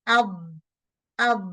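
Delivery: আব with the tongue too far back; wrong dal. Shown as a demonstration. Teacher showing the tongue held too far back. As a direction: show the error আব, sound drifts back. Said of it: "এরকম sound হবে".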